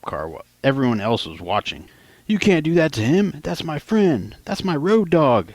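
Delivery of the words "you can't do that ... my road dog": higher, whiny plea for a friend; pleading. Retold or imitated. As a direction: beg the cop to let him go. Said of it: "Sal pleaded".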